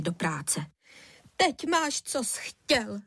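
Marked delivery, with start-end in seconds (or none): 1.4-3.0 higher, accusing outburst; blurted reproach. Acted. Wife blaming husband on the phone, blurted reproach. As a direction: spit it at him all at once. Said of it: "vychrlila na něj".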